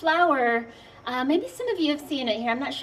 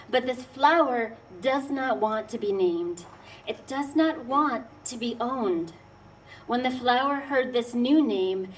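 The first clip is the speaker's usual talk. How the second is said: poem reading. Acted. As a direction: read it like a dark folk tale. Resumes reading her poem.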